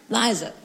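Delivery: Liza said as LIE-za, long i; Liza pronounced. Shown as a demonstration. Teaching the crowd her name, clear LIE-za. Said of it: "Has a Z in it".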